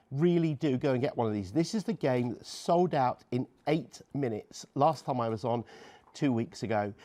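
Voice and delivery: warm and persuasive. Acted. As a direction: lean in and win the viewers over gently. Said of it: "I just need to speak to the viewers".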